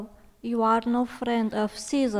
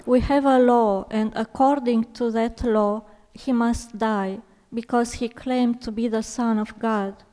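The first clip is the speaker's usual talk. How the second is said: loud, high-pitched insistence; insistent; 8 semitones higher, 9 dB louder than usual. A narrator's reading. Jewish leaders insisting to Pilate that Jesus die, insistent. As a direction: press the accusation, high and forceful. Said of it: "The Jews insisted".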